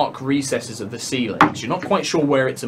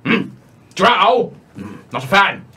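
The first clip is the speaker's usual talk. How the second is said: scornful monster; 5 semitones higher than usual. Acted. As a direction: spit out your contempt for the Drow. Monster rants about the Drow.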